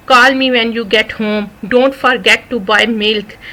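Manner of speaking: very slow, clearly spaced words; slow model sentence. Shown as a demonstration. Teacher models a daily sentence very slowly. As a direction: spell it out slowly for beginners. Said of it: "چھوٹے چھوٹے sentences میں".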